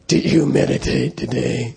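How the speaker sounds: lightly voiced stern, mean old-school lama. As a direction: imitate a mean lama interrogating his monk. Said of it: "His voice was like that".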